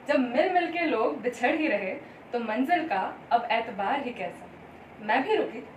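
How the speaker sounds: measured Hindi verse with lilting phrases; poetry recitation. Acted. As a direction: recite it line by line, pausing between lines. Recites her Hindi poem.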